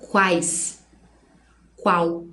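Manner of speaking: QUAIS and QUAL each in one unbroken syllable; single beat. Shown as a demonstration. Teacher showing it comes out only once, one syllable each. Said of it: "sai uma vez só".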